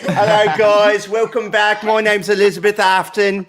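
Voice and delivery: a bright British greeting that slides toward Irish, with a laugh in it; British accent drifting Irish. Pretend. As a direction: do a chirpy British vlogger who ends up half Irish. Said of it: "that started sounding vaguely Irish".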